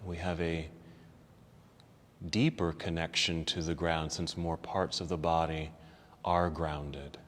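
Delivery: soft, unhurried relaxation voice; guided relaxation. Acted. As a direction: ease them down into rest. Leads closing relaxation.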